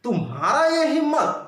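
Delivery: angry scolding. Shown as a demonstration. Teacher to students, a mild angry scold. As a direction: snap it at a younger offender. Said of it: "थोड़ा क्रोधित होकर के".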